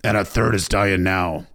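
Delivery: loud, forceful report from a big man; rumbling big warrior. A narrator's reading. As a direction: boom it out like a burly northern lord. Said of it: "rumbled the Great John".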